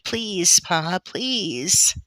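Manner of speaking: high, loud opening plea; child's insistent pleading; begging. A narrator's reading. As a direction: beg your father desperately. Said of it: "Laura begged".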